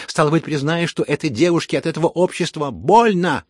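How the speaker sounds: loud, indignant scolding; гневная отповедь. Acted. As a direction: lash out at them, rising in anger. Разгневанная отповедь Лизаветы. (громкий гневный упрёк)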